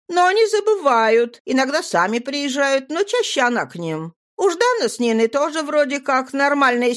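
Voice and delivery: put-on girl voice. A narrator's reading. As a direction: speak up as a girl. Nadira voiced.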